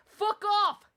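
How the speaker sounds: loud, furious burst at the game; angry outburst. Real, not acted. Streamer rages at the sequel, loud angry outburst. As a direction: spit it out in real anger. Ranting about Persona sequel.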